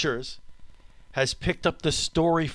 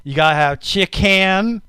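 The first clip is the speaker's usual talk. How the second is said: funny bread voice; 4 semitones higher, 3 dB louder than usual. Acted. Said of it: "I gotta talk like that".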